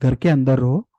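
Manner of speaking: low, gentle, kind instruction; lovingly. Shown as a demonstration. A parent lovingly keeping a child indoors. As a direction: coax the child warmly. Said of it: "आप बोल सकते हो प्यार से".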